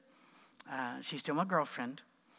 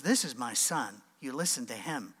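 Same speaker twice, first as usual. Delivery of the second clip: voice of God; 4 semitones lower than usual. Retold or imitated. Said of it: "He goes".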